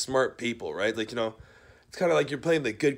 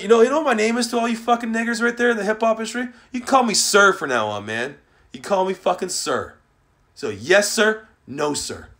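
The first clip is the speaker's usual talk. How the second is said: louder, barking demands for respect; loud and domineering; angry demand; 4 semitones higher, 4 dB louder than usual. Real, not acted. Telling the industry to call him sir, angry loud voice.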